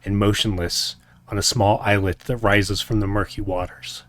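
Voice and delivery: game master's somber scene setting; story narration. A narrator's reading. GM reads opening recap narration.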